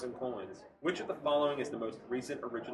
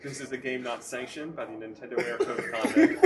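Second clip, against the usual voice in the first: laughing; 3 dB louder than usual. Real, not acted. Host cracks up mid-question.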